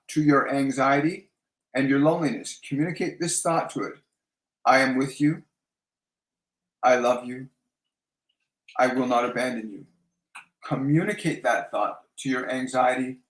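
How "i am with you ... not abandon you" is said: reassuring, with long pauses between phrases; tender, measured self-reassurance; gentle, mindful. Shown as a demonstration. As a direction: speak each phrase gently and let it settle. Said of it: "just gently and mindfully speak those words".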